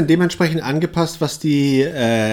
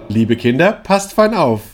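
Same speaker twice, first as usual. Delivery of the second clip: strict teacher; 4 semitones higher, 3 dB louder, slower than usual. Pretend. Mock teacher addressing the class.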